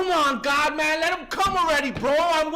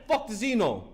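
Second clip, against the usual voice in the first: laughing mockery; 3 semitones lower than usual. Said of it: "I'm like".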